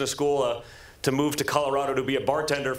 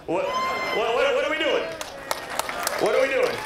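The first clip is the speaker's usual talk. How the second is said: mock outrage; 10 semitones higher than usual. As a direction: throw up your hands in disbelief. Mock outrage, very high, louder.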